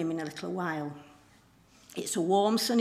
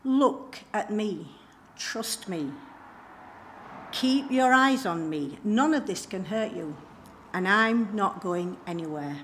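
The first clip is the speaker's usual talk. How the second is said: slow, deliberate reassurance; lightly acted, pause between phrases to steady him; voice of Jesus. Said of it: "But Jesus speaks again".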